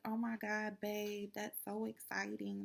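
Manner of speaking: high, gushing squeal of joy; a wife thrilled by her husband's news; excited gush. Pretend. Wife hears big news, excited high gush. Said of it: "you're so excited".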